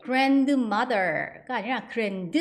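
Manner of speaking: grandmother spoken slowly without the d; slow careful. Shown as a demonstration. Teacher correcting the d sound. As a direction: stretch it, drop the d. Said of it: "D 발음이 안 난다고".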